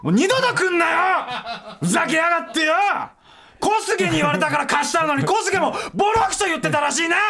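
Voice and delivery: high shouted outrage; furious comic shouting, laughing; comic rage. Real, not acted. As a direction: yell at them in mock fury. Comic rage at friends' insults.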